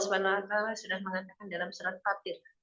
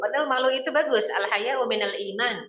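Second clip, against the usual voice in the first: a louder, fast burst of insistence; emphatic preaching; 3 semitones higher, 6 dB louder than usual. Acted. Preacher correcting parents, louder and faster. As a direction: hit the point hard, quickly. Preacher stresses her point.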